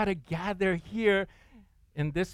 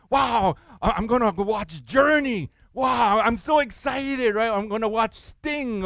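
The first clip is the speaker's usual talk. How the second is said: high, loud giddy fan voice; hammed-up concert-going teen, higher and louder; mock teen excitement; 6 semitones higher, 4 dB louder than usual. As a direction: gush like a teenager off to a concert.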